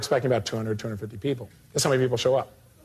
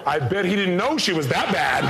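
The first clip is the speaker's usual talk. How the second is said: mock audience remark. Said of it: "this other guy in the front row going".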